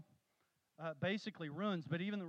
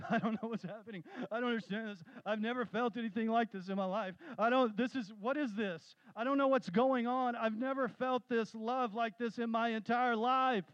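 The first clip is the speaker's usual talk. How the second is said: higher, louder retelling of a stunned man; overwhelmed amazement; 5 semitones higher, 3 dB louder than usual. Retold or imitated. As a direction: build from bewildered to loud wonder. Weeping man overwhelmed by prayer.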